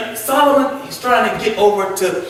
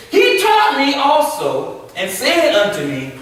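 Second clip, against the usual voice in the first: drawn-out, reverent reading of the verse; slow scripture reading; slower than usual. Acted. Preacher reading scripture to the class. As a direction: read it slowly like holy writ.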